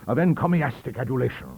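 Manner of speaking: high, loud Johnsonian outrage; pompous roar. A narrator's reading. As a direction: thunder at the vile Whig. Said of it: "he roared".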